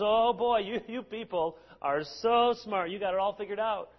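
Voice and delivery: mock admiration; sarcastically impressed; sarcastic. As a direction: lay on mild sarcastic praise. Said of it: "He even uses sarcasm".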